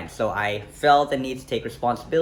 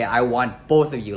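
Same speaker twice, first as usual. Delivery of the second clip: louder, outraged repeat of someone's words; indignant quote; 7 dB louder than usual. Retold or imitated. Man repeating girlfriend's audacious request, indignant and louder. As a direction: throw the words back in disbelief. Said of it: "She had the audacity to say".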